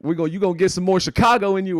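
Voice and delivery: high, loud playful impression of the judge; hammed-up loud high teasing voice; imitating her riff. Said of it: "That's what she said".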